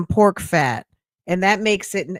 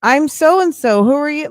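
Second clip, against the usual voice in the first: higher, bright forced hello; awkward self-introduction; 7 semitones higher than usual. Retold or imitated. Greeting strangers nobody introduced her to, in an awkward forced-cheery voice. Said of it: "I have to uncomfortably say".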